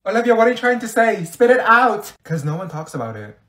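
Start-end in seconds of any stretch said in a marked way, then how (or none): 0.1-2.1 loud, high exasperated demand; fed-up raised voice; impatient shout. Acted. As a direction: force the rambler to get to it. Impatient with rambling friend.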